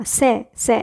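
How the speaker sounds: से with the open "a" of English "and"; vowel sound demo. Shown as a demonstration. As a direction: isolate से, vowel as in "and". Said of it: "एंड का ए sound आना चाहिए".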